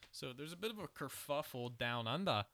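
a light put-on Australian accent, mate and all; hammed-up Aussie bloke telling the news, Australian accent. Podcast host jokingly reads the news to his co-host in a mock Australian accent. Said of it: "everyone knows I was Australian. My accent's good".

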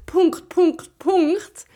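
letter by letter, then dots; spelled out slowly. Shown as a demonstration. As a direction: spell it out deliberately. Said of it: "dann muss ich schreiben".

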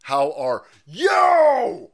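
slow, high, loud creaky mock greeting; mock old man greeting. Mocking the president greeting the reporter, high drawn-out bleat. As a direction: ham up a feeble old man calling out.

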